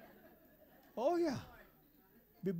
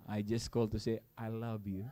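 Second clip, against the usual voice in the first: sweet husband; 5 semitones lower, 5 dB quieter than usual. Pretend. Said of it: "tawagan mo naman siya".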